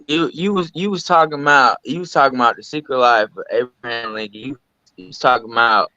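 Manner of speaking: glitchy robotic mic audio. Real, not acted. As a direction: voice breaking up like a robot over a bad mic. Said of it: "Sound like a robot".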